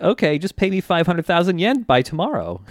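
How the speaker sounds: lightly acted evil smugness; smug and evil. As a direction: imitate a smug little extortionist. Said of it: "really smug, evil look on his face".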